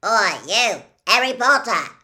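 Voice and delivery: loud, rough shout across a crowd; gruff shouting dwarf. A narrator's reading. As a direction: bellow his name like a grim dwarf. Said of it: "shouted a particularly grim-looking dwarf".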